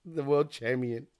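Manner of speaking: "champion" slowly and softly as cham-yun; echoed mispronunciation. Retold or imitated. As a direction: quietly echo the gimmick, drawing out "champion". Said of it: "That becomes his gimmick".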